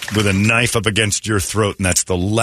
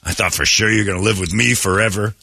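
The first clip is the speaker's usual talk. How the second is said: dad voice; 2 semitones higher than usual. Retold or imitated. Dad quoted in story.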